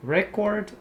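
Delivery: REcord, first syllable stressed; noun stress. Shown as a demonstration. Teacher naming the noun record for students. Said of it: "o substantivo, você tem record".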